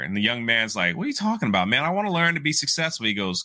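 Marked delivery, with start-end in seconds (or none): 1.0-3.1 high, quick mock protest; impatient protest. Young man questioning his would-be mentor, impatient. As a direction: act out a baffled student objecting, pitched up.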